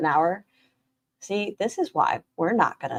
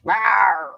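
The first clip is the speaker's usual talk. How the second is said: playful growl; 3 semitones higher, 4 dB louder than usual. Pretend. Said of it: "a growl".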